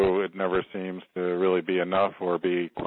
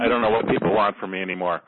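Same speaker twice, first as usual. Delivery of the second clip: a quick line released into a long exhale; faster than usual. Shown as a demonstration. Client repeats the prompted phrase after losing it, exhaling. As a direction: quickly say it, then breathe out audibly. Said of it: "Say that and exhale out".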